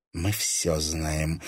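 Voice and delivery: guarded, slow and soft; restrained. A narrator's reading. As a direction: keep it reserved and measured. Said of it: "сдержанно произнесла Вера".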